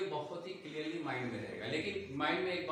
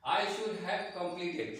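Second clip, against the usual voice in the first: slow, each word set apart; slow, deliberate example sentence; slow teaching model; much slower than usual. Shown as a demonstration. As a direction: dictate it slowly for learners. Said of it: "इसका sense हो गया".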